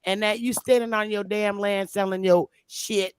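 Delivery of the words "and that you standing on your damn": louder, higher heated callout; mock confrontation. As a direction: call him out, half-joking.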